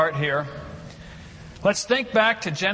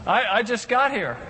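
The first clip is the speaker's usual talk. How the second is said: higher, mock indignant newcomer; protesting Adam; 5 semitones higher than usual. Lightly voiced Adam protesting to God he is not tired. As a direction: whine a little, you just arrived. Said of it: "He says".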